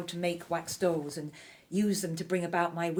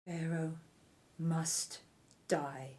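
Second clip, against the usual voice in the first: hushed threat; 6 dB quieter, much slower than usual. Acted. Conspirator reveals deadly plot.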